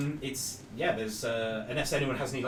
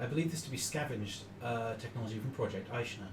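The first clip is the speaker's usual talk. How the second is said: calm AI voice; 6 dB quieter than usual. Acted. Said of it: "the voice say".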